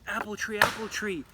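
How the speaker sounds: urgent plea. Acted. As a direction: beg the tree to hide you. Girl begs tree.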